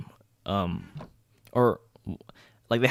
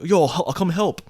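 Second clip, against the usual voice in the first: feigned helpfulness; 7 semitones higher, 5 dB louder than usual. Retold or imitated. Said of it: "act, like, as if I'm helping".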